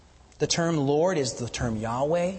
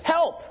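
"Help" hit much higher, then falling; emphasis on help; 12 semitones higher, 3 dB louder than usual. Shown as a demonstration. Preacher showing the verse opens on help, high and stressed. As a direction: ring out "Help" as the key word. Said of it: "there's an emphasis on this word".

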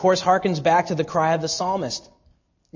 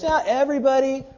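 mocking popular belief; 7 semitones higher, faster than usual. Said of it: "our culture is saturated with the belief".

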